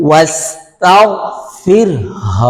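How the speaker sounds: ফির with a light র, then a clear হ; tajweed demo. Shown as a demonstration. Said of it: "ফিরের র বারিক হবে".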